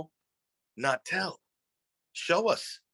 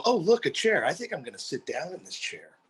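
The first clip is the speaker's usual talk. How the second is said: mock student; 5 semitones higher than usual. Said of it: "they go".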